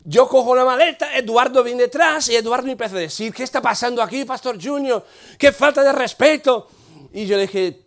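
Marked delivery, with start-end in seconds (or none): 3.3-6.7 protesta aguda de compañero indignado; indignación imitada. Retold or imitated. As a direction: quejarse escandalizado, imitando. Eduardo indignado, voz del narrador. (indignación imitada)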